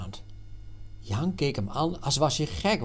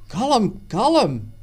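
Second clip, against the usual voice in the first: high, louder frightened plea; startled cry; 9 semitones higher, 8 dB louder than usual. Acted. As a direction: call out in sudden alarm. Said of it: "riep Jan schrokken". (geschrokken roep, hoog en luid)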